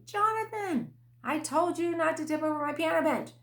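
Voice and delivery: high, sharp mom scold; frustrated mother scolding her toddler; exasperated scolding. Retold or imitated. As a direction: call his name up high, then scold.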